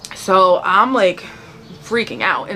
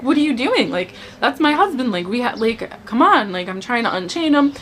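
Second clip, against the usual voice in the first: higher, alarmed pleading to let him go; begging strangers, voice pitched up in panic; frantic pleading; 3 semitones higher than usual. Retold or imitated. Pleading with captors in dream.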